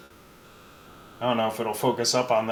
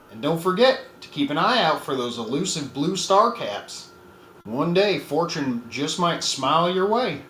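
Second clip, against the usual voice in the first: cowboy voice; 3 semitones higher than usual. Acted. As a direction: read it like an old cowboy ad. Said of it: "I gotta put on the cowboy voice for it".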